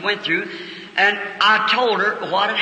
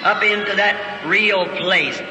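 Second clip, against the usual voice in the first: fervent prayer. Acted. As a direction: pray it out, building and falling. Prays over the congregation.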